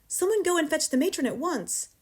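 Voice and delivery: high, urgent call for help; alarmed cry. A narrator's reading. Teacher calls for matron, crying out urgently. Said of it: "she cried".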